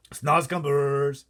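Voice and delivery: slow, loud, stretched-out cry; excited cry. A narrator's reading. BFG showing the Queen his sack, excited cry. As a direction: proudly announce it to the crowd. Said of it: "he cried".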